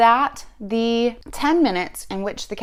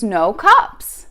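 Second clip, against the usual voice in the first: retold scream; 6 dB louder than usual. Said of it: "rolls down the window and screams".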